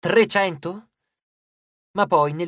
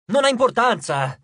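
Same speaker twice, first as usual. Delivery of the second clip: louder, a snappish cut-off; irritated snap; 5 semitones higher, 6 dB louder than usual. A narrator's reading. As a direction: brush them off, annoyed. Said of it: "scattò il dio innervosito". (scatto irritato, più forte)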